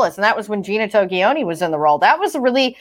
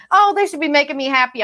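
higher, quick imitation of griping; quick mock gripe, pitched up; mock complaining; 5 semitones higher, faster than usual. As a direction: imitate someone bitching about their job. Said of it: "when you're bitching about your job".

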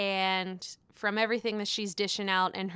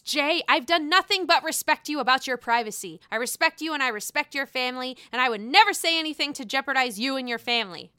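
Madison's voice; 2 semitones higher, faster than usual. Retold or imitated. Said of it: "I tried to say it in the way that Madison would do it".

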